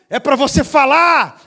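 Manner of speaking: loud high order to speak; shouting command. Retold or imitated. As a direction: bark it out to make her talk. Pastor shouts.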